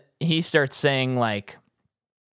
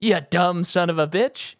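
imitating Joe Pesci's echo; 6 semitones higher than usual. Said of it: "And then Joe Pesci says".

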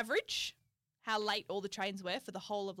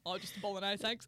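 understated everyday Australian order; casual Australian "bolognese"; Australian accent; 2 semitones lower than usual. Shown as a demonstration. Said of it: "in, like, an Australian accent".

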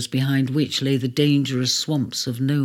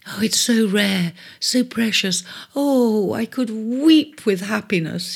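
drooling; 5 semitones higher than usual. Acted. Cancer swooning over the precious pearl. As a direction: breathe it out, almost weeping with joy. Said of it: "she drooled".

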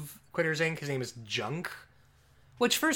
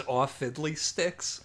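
slow, mild mock mobster; a lightly voiced disappointed goon; slow deadpan goon; slower than usual. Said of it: "the best line delivery I've ever heard".

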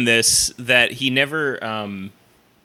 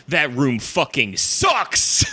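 bitter comic; 3 semitones higher, much slower than usual. Retold or imitated. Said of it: "then be like".

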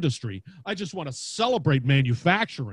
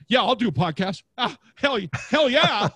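eager hell yeah; 6 semitones higher, 5 dB louder than usual. Retold or imitated. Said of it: "Now everybody's like".

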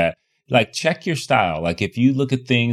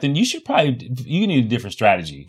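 usual speaking voice

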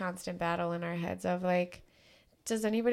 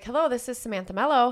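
bright professional phone greeting; customer service voice; 4 semitones higher, 6 dB louder than usual. Retold or imitated. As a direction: answer like a polished realtor. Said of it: "You have to answer it like that".

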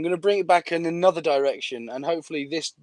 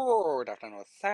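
lower-pitched put-on African accent; mock African accent; 3 semitones lower, 6 dB quieter than usual. Scam caller greeting a victim, in a mock African accent. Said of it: "the one African accent you can do".

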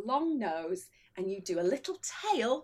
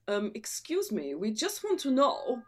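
put-on Egyptian accent; 2 semitones lower than usual. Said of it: "I think he's Egyptian".

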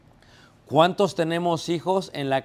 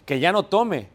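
higher, louder fed-up "ya"; retold irritation, pitched up; mild mock annoyance; 4 semitones higher, 4 dB louder than usual. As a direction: imitate an exasperated parent, lightly. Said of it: "Mucha gente se enoja y dice".

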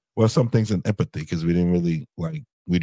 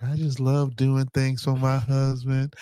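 sing-song, drawn-out higher voice imitating a wife; mock doting wife; 5 semitones higher, slower than usual. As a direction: gush slowly in a mocking sugary wifely voice. Mocking retold wife's sweet devotion.

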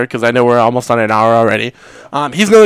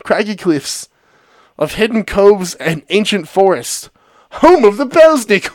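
poem reading. Acted. Reads poem-story aloud.

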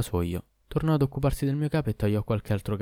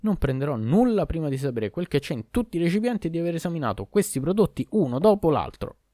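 higher, indignant protest; 7 semitones higher than usual. Acted. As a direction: object hotly in a raised pitch. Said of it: "protestò".

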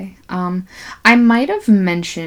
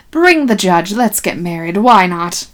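mock proclamation; 7 dB louder than usual. Acted nineteen forties couple's proclamation.

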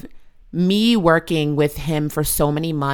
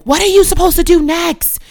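high, louder mock shout; nagging mom shouting a question, high; retold yell; 7 dB louder than usual. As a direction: bark the question at her son again. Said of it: "And then I would be like".

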